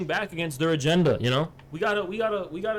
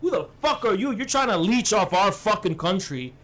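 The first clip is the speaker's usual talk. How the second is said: imitating Hassan ranting. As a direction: keep hammering the point in a mock tirade. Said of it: "He'd be like, Hey".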